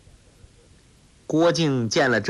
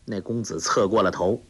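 plain reading voice

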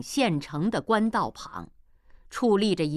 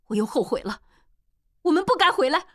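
much higher, louder anguished voice; regretful woman; 8 semitones higher, 6 dB louder, much faster than usual. Acted. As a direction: cry out your regret.

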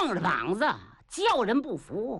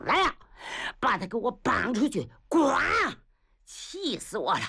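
feigned fury; 3 semitones higher than usual. Acted. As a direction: fake rage meant to be seen. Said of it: "太子把眼睛一瞪".

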